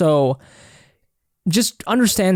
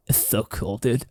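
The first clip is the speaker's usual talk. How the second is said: laughing through the words, softer and lower; 5 semitones lower, 7 dB quieter than usual. Real, not acted. Host tickled by his recording, laughing softly as he speaks. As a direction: giggle it out, tickled. Reacting happily while talking.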